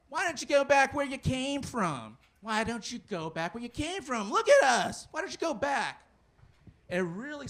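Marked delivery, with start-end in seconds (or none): 0.1-6.0 high-pitched, heckling angry-guy impression; mock-angry jeering, pitched up; Angry Bob. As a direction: play an irate local yelling at a passing car. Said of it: "I call him Angry Bob".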